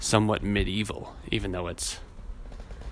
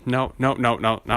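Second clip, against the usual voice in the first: louder, emphatic string of refusals; retold refusal; 5 dB louder than usual. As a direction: shut the idea down, louder. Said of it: "And I was like".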